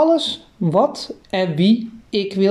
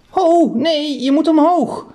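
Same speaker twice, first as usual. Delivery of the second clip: higher, urgent mother directing the antenna; mother steering the antenna, raised voice; lightly voiced mother; 8 semitones higher, 3 dB louder than usual. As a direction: call out instructions as mum, pitched up.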